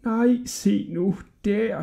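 slow, high, soft drawn-out remark; gossiping townsfolk. A narrator's reading. Townsfolk pointing out Hodja to each other, gossiping. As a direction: draw it out to a fellow gossip. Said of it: "sagde folkene i Pjort til hinanden".

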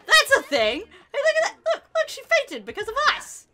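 high, loud excited outburst; excited shouting. Real, not acted. Player sees a sim fainting over them, excited shouting. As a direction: shout it like astonishing news. Thrilled that sims react to them.

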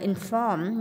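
"inform" stressed on the second syllable. Shown as a demonstration. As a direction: lean on the end of "inform". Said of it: "nhân âm hai". (nhấn âm hai "inform")

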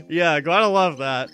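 laughing. Real, not acted. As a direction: laugh at the risque question.

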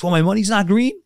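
hot-tempered ranter. Retold or imitated. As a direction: mimic his hothead rant. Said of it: "He's got a temper".

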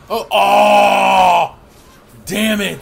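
loud startled cry; real shout of alarm. Real, not acted. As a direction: yell as you get killed. Dying in game, shouting.

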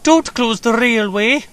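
slow, high, loud plea; high-pitched imploring wail; begging. A narrator's reading. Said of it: "begged Peter Sam".

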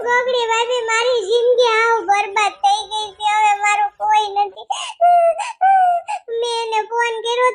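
a hammed-up teary young wife; weepy wife. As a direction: whine out your heartbreak to the sister-in-law. Abandoned wife complains tearfully.

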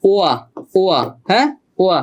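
"ওয়া" as a separate wa glide; sounded-out first syllable. Shown as a demonstration. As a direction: isolate "ওয়া", repeating it for the student. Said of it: "এইটার উচ্চারণ কিন্তু".

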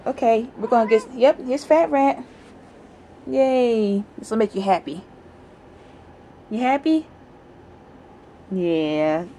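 high pet talk. Real, not acted. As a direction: cheer up the cat. Giving the cat a toy.

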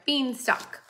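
beanstalk, slow, split in two; slow syllable demo. Shown as a demonstration. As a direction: draw out beanstalk beat by beat. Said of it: "You could do that word".

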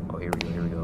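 soft tense whisper. Real, not acted. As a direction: breathe the words out. Sneaking past in horror game.

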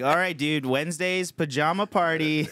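high, loud jock voice; mock bro announcement. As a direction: announce it like a hyped classmate. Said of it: "it's like".

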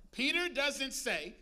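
slow, deliberate setup, each word weighed; slowed for emphasis. Shown as a demonstration. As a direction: drag it out to build suspense. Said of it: "Peter doesn't say (repeat)".

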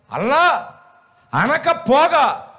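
slow, low grumbling village grandma; old woman's voice. Retold or imitated. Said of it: "అంది".

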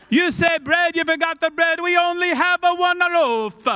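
loud, high, hammed-up Italian-German; muddled Italian-German accent. Disciple ranting about one loaf, loud muddled Italian-German accent. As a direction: belt it out in a wandering mock Italian-German accent. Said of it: "I don't know how my accent has changed".

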